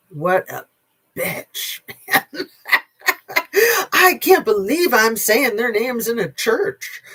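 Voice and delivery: mock her words with a scoffing laugh in the voice; mocking quote. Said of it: "and she was like".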